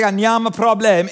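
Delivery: Bulgarian phrase in a put-on accent; English speaker trying out Bulgarian pronunciation. Shown as a demonstration. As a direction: say it as a learner's Bulgarian. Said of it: "is no problem in Bulgarian".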